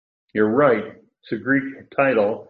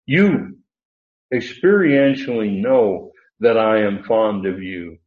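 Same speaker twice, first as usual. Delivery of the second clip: "You" set apart with force, then a pause; emphatic YOU; 4 dB louder than usual. Acted. Preacher as Peter appealing to the Lord, emphatic YOU. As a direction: punch "You" alone, then carry on firmly. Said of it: "again he uses that emphatic pronoun".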